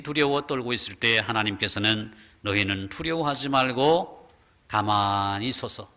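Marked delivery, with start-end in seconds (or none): 2.4-5.9 lower, slow solemn command; voice of God. Acted. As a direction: reassure the trembling people as God. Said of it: "이렇게 말씀합니다". (낮고 느린 엄숙한 명령)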